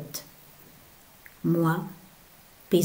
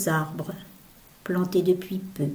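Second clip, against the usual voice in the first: whisper; 5 dB quieter than usual. Acted. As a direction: drop to a whisper. Poem line trails to whisper.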